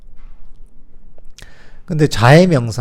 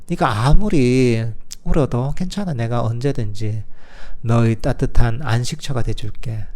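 tender comfort. Shown as a demonstration. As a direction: soothe a hurting child inside you. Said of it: "얘기해 주는 거죠".

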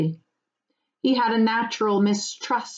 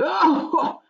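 high, hearty farmer's chuckle; laughing; 10 semitones higher, 3 dB louder than usual. Acted. Farmer amused at Frodo's fear, laughing. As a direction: laugh off the worry. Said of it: "the farmer laughed".

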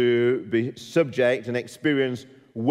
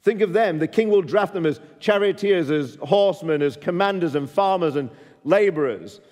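pleading prophet; 3 semitones higher than usual. Retold or imitated. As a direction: urge them to think of their sons. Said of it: "It's as if Samuel says".

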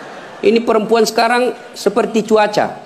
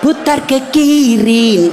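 aerobics instructor call; much slower than usual. Retold or imitated. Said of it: "beleng-beleng semua".

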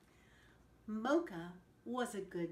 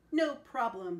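cheerful cry; 8 dB louder than usual. A narrator's reading. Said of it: "he cried".

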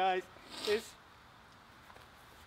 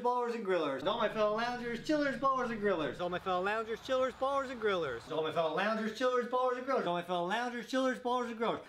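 quick rolling intro chant; rapid-fire. Real, not acted. Host racing through the show's opening catchphrase, rapid-fire. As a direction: rattle off the catchphrase without a break. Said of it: "That's the fastest that you've ever said that".

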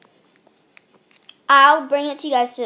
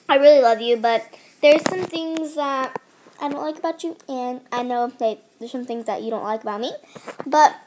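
chewing gum. Real, not acted. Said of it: "sorry, I'm chewing gum".

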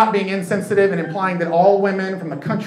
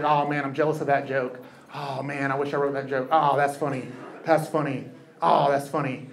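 much softer and lower, private envy; muttering to yourself; 5 semitones lower, 8 dB quieter than usual. Retold or imitated. Comic jealous at the back of the room, soft and low. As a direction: mumble it under your breath. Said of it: "you say things to yourself like".

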